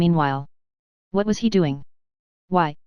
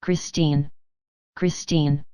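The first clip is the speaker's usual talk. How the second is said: moaning call; 3 semitones lower, much slower than usual. Acted. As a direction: moan the name into the dark, a touch of despair. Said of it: "He moaned, calling to her".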